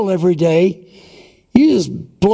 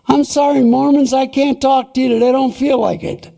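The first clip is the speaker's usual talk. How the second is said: higher, hurried excuse voice, lightly acted; a light mock-polite brush-off, pitched higher; 5 semitones higher, faster than usual. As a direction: play someone dodging Mormons at the door. Imagined excuse to Mormon visitors.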